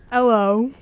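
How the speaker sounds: attempted British accent, comically off; a poor stab at British; bad British accent. Shown as a demonstration. Student finally gives in to peers, bad British accent. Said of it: "sound like the shark from Nemo".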